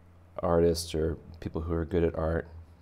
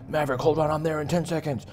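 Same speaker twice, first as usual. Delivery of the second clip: radio pilot; 9 semitones higher, 4 dB louder, faster than usual. Pretend. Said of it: "He's like".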